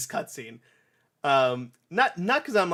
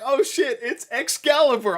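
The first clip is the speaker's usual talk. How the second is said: much higher, louder awestruck cry; much higher, louder amazed shout; awed excitement; 13 semitones higher, 8 dB louder than usual. Retold or imitated. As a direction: Sonic seeing his new sword. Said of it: "he's like".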